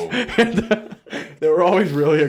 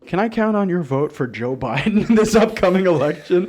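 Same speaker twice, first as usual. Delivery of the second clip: higher, louder cheery pitch; canvasser pitch; 7 semitones higher, 5 dB louder than usual. Retold or imitated. Canvasser asking John for his vote, hammed-up cheery. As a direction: sell the vote like a caller. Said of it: "she'd go".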